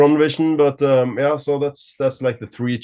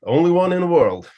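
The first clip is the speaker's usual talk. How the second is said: higher and louder, beaming with pride; proudly presenting his custom guitar, voice lifting; proud excitement; 6 semitones higher, 5 dB louder than usual. Real, not acted. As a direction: show off the one-of-a-kind guitar.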